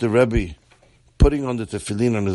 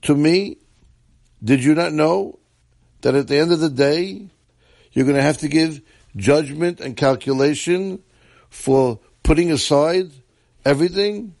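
high, raised, furious rebuke; angry yell; 5 semitones higher than usual. Acted. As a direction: shout the accusation. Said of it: "he yelled".

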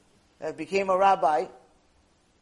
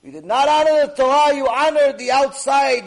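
stern rebuke; 5 semitones higher, 9 dB louder than usual. Acted. Evan Ha'ezel rebukes the congregation.

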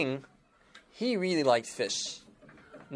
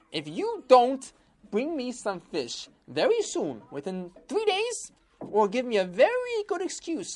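angry king; 8 semitones higher than usual. Acted. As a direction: lay down the threat like an angry king. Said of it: "the king got so angry".

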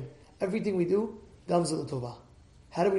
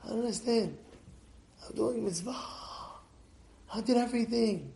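heartbroken plea; 3 semitones higher, 10 dB quieter, faster than usual. Retold or imitated. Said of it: "she looks at me and says".

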